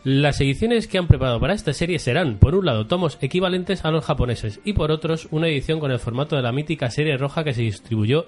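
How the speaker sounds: formal news read; voz de noticias. Acted. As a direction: keep the anchor delivery going. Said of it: "¿sigue con esa voz?". (tono de telediario)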